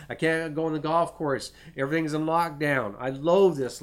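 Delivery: loud, high-pitched moaning to God, half-mocking; whiny complaining. Preacher mimicking a complainer griping to the Lord, loud and whiny. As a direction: act out a grumbling believer fed up with lockdown.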